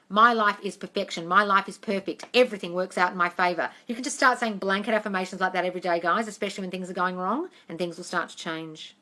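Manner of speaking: ordinary delivery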